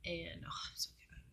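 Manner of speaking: choked up as it comes back; getting emotional. Real, not acted. Telling viewers about the crash, getting emotional. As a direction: voice catching, then a burst of a laugh. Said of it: "getting emotional".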